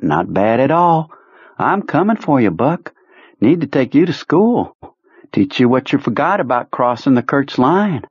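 high, gloating threat; menacing Kurtz voice. Acted. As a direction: relish the hunt. Kurtz threatening his pursuit.

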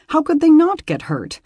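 high, rising worried question; fretting aloud; anxious. Acted. Beth's anxious thought.

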